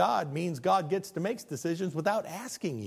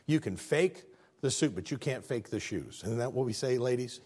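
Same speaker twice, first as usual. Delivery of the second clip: confiding aside; 6 semitones lower, 6 dB quieter than usual. Real, not acted. Aside to the ladies.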